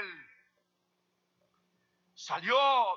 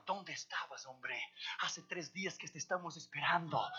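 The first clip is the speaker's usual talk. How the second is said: whispered in his ear; 6 dB quieter than usual. Retold or imitated. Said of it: "Le llegó el guardia al oído".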